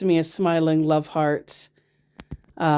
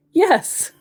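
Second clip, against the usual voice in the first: squeaky high mock reply; mock high yes; 13 semitones higher, 5 dB louder than usual. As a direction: read it in a silly high voice. Reading scammer's reply, high.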